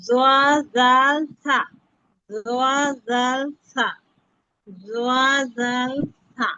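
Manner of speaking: জোয়া জাল সা with the tongue tip touching the upper front teeth, the last take slowed; drawing out জোয়া জাল সা as a model; Arabic letter sounds. Shown as a demonstration. Teacher modelling letters for online students, slow careful articulation. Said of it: "জিহ্বার আগা সামনের উপরে দুই দাঁতের আগার সঙ্গে লাগাইয়া".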